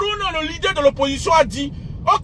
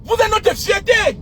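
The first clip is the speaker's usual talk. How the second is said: proud slow shout; 7 semitones higher, slower than usual. Real, not acted. Praising the youth.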